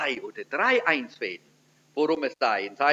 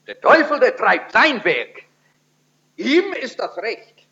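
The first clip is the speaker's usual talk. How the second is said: ominous warning; 5 semitones higher, 5 dB louder than usual. Real, not acted. Warning about the devil.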